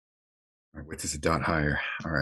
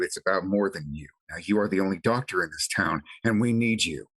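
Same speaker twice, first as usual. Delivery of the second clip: firm urgent command; 2 semitones higher than usual. Acted. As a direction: order him to stay on his feet. Caleb urges the doctor on.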